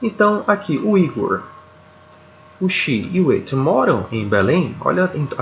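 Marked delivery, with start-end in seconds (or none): 2.6-4.7 tune rising at the end on "Belém"; rising yes-no question. Shown as a demonstration. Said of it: "a, a entonação".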